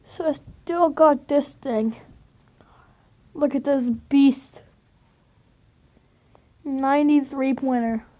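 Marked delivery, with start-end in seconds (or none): 3.3-4.6 awed whisper. Real, not acted. Admiring a card.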